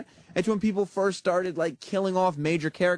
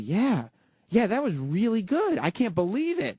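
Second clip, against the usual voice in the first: imitating shocked delight, higher pitch; 5 semitones higher than usual. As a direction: lightly act out a stunned first reaction. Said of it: "shocked at the outcome of The Godfather".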